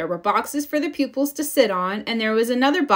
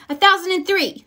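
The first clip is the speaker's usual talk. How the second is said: higher, louder bragging topper; mild one-upmanship; one-upping; 10 semitones higher, 4 dB louder, faster than usual. A narrator's reading. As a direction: top her count smugly. Bragging contest between cubs.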